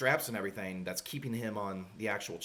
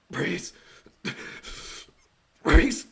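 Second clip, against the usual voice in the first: mock shout; 7 semitones higher, 10 dB louder than usual. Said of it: "just saying".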